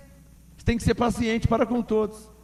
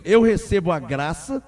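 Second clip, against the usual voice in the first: proud declaration; 4 semitones lower, 5 dB louder than usual. Acted. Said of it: "Então diga com orgulho".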